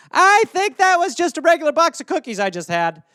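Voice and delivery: mock a stoner realizing the mistake; hammed-up stoned voice; stoned snacker. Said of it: "you get stoned and eat twelve".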